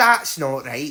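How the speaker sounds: put-on Scottish accent. Showing the anchor phrase used to get into an accent: scottish accent. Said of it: "So with Scottish".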